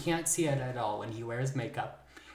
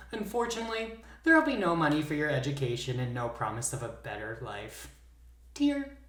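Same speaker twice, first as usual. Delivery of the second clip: theatrical narrator voice, building tension; dramatic storytelling. Acted. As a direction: spin it like a campfire tale.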